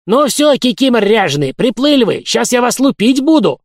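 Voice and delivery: put-on high, loud old-man tenor; old man's high shout. A narrator's reading. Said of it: "высоким старческим тенорком закричал". (старческий тенорок, крик)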